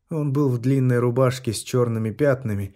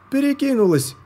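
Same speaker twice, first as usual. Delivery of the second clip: shout; 4 dB louder than usual. Acted. Helper shouting during surgery.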